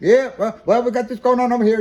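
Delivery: very high, loud, rushed, rattled-off fast patter. Retelling what a tire seller said: imitating a fast-talking man with an accent. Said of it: "you just talk like this and just talk real fast".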